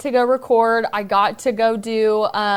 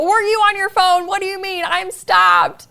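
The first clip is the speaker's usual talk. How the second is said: upset questioning; 9 semitones higher, 3 dB louder than usual. Retold or imitated. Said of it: "I immediately just wanna be like".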